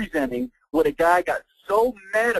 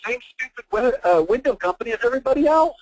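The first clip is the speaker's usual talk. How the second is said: unimpressed website visitors; 8 semitones higher than usual. Retold or imitated. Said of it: "they go".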